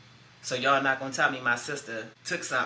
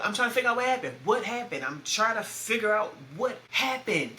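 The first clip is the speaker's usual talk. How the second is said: frantic; 5 semitones higher than usual. Retold or imitated. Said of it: "big sister mode now".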